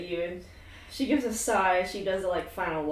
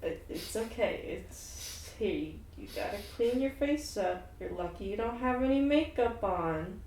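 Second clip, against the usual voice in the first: soft comforting; 7 dB quieter than usual. Acted. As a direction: hush her tears gently. Shar comforts crying Elektra.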